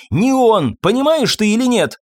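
loud, high furious demand; angry shout. A narrator's reading. Irene yells at Fabien that it isn't him, furious. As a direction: yell it at him. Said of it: "рассердилась мадам Лоран".

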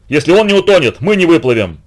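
ordinary delivery, nothing marked

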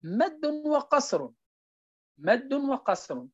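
مد وقصر drawn out, slow and deliberate; slow recitation. Shown as a demonstration. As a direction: chant مد وقصر syllable by syllable, slowly. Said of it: "قال".

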